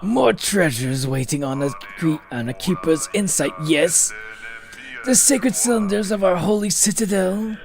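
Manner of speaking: slow, solemn lightly voiced keeper; lightly voiced NPC. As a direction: intone like an ancient guardian. Voicing game NPC dialogue.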